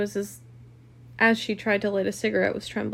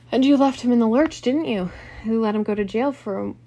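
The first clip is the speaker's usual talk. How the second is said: attack him angrily; indignant charge, easing slightly; accusing; 7 dB louder than usual. A narrator's reading. Husband accuses rival.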